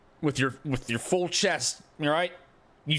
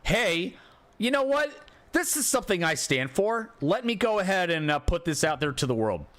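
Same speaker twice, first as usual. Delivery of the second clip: mock poster; 5 semitones higher than usual. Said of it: "repost this and say".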